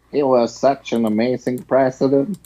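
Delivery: put-on lightly done American Bush accent; George Bush impression. Host mocks Bush after the clip, lightly done American Bush accent. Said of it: "American accent I have done".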